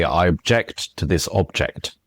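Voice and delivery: first "object" obJECT, last "object" OBject; stress demo. Shown as a demonstration. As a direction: stress the verb "object" on its end, the noun on its start. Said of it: "exactly the same if I say".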